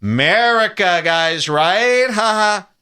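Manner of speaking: America as MURR-ica with a fake laugh; mock-jokey America, tacked-on fake chuckle; mocking hashtag users. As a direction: jeer America like a hack comic, forced ha ha. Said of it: "they try to poke fun".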